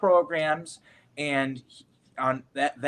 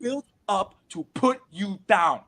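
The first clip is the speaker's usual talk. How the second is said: a hint of an urgent older actor, higher; urgent warning; 6 semitones higher than usual. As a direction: press the warning home, lightly voiced. Mentor urgently warning the kid.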